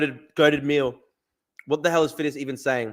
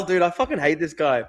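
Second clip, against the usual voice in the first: ordinary talk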